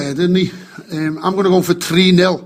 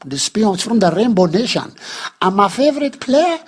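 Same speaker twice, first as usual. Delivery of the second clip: Nelson impression. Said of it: "Can you hear a little Irish twang there?".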